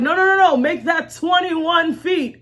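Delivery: stubborn builder correcting the crew; Noah insisting. Retold or imitated. Noah corrects the people watching him build, insistent. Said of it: "he was just like".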